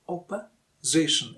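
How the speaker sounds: slow "opposition", pausing between oppuh and ZITION; syllables split. Shown as a demonstration. Teacher breaks it down, "opposition" slowly in two parts. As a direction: break "opposition" before the stressed SI. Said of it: "It's not oppo".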